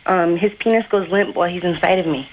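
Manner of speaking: put-on boy faking a young girl's voice. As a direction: pass yourself off as a teenage girl. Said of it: "do the chick voice again".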